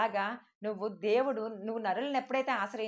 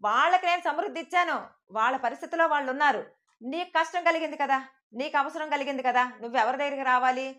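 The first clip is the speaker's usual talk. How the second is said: voice of God. Retold or imitated. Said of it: "కానీ దేవుడు అంటున్నాడు".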